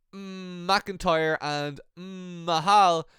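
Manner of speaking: long hummed lead-in, then slow drawn-out names; showy name reveal. Retold or imitated. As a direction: draw the names out like a hammy announcer. Miz and Morrison's mock announcing catchphrase.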